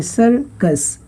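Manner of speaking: "सर्कस" in two beats, सर then कस; split syllables. Shown as a demonstration. Teacher showing students two syllables, "सर्कस" split in two. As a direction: break "सर्कस" after सर. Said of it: "आपका sound दो भागों में split".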